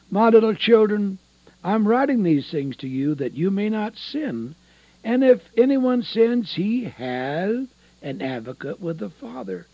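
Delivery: scripture read out with force; fervent preaching. Real, not acted. Preacher reading First John to listeners, fervent preaching. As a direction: proclaim the verse, pushing up the key phrases.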